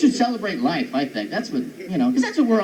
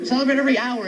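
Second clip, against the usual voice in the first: mock celebration cry; 4 semitones higher than usual. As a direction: stretch it like a New Year's cheer. Mock everyday celebration yell.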